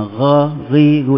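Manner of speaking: thin, unrounded "gha, ghi, gu"; wrong light ghin syllables. Shown as a demonstration. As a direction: say "gha, ghi, gu" without raising the tongue.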